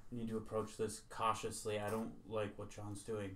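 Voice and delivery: a hushed but carrying whisper; stage whisper. Acted. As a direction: whisper so the table still hears. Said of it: "I'm gonna stage whisper".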